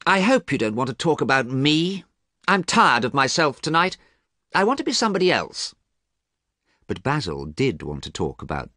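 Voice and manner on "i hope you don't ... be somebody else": raised, quick and restless; lightly voiced Dorian, restless; weary young man. A narrator's reading. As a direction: sound tired of yourself.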